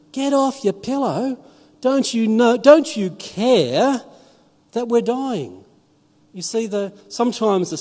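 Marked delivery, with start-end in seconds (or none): 0.1-5.6 higher, louder frantic appeal; frightened pleading. Retold or imitated. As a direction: disciples rousing the sleeping Lord in the storm, afraid. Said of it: "the disciples said".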